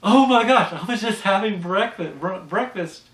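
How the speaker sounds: high, loud nosy busybody; Helen Lovejoy gossiping. Retold or imitated. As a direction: gush it out like a nosy churchwife. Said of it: "body shows up and says".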